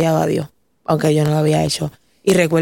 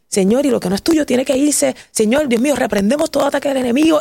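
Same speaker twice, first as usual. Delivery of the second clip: father rebuking the enemy, pitched up; a firm, raised prayer of rebuke; 5 semitones higher than usual. Retold or imitated. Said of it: "él empezó a reprender". (padre reprendiendo en oración, con voz más aguda)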